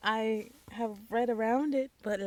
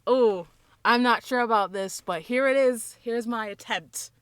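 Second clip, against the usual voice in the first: mock unsure; 3 semitones higher, 8 dB louder than usual. Shown as a demonstration. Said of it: "we must say".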